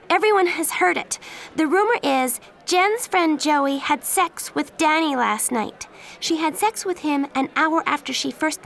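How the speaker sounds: high, loud furious reply; angry retort. Acted. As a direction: throw his words back at him in anger. Angry girl confronts Danny.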